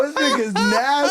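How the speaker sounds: slowed, a bit high, laughing through it. Real, not acted. Teasing his friend, laughing. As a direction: giggle out the insult.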